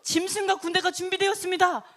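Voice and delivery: high-pitched official report; formal announcement. Retold or imitated. Servant reports the army ready to the king, formal announcement.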